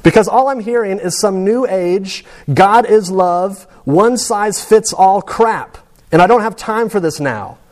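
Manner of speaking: a lightly acted sneer at easy answers; scornful dying man. Patient rejecting chaplain's new age talk, mild scornful outburst. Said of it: "And she goes".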